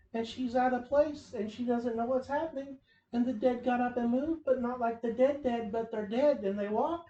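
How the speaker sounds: lightly voiced airhead rambling; imitating Willow's rambling. Podcast host mocking a TV character's dialogue, light mock-airhead voice. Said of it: "And she talks like this".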